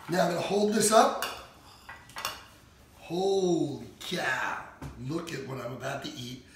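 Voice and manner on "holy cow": awed. Real, not acted. Awed at the food.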